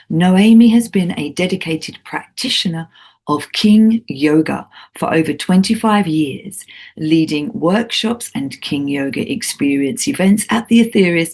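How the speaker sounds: measured radio host's introduction; scripted show intro. Acted. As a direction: read the guest's biography as a prepared intro.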